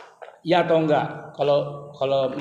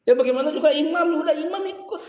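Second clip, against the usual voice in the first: laughing resignation; 10 semitones higher than usual. Retold or imitated. Mock resigned follower.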